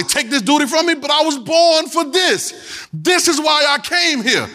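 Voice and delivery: high, slow shout building to resolve; preached cry. Acted. Preacher voicing Jesus declaring his purpose, high slow shout.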